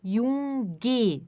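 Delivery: "Junge" said as uge with a hard g; wrong "Junge". Shown as a demonstration. Teacher showing the pronunciation to avoid. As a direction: show the mistaken "Junge". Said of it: "nunca vai ser".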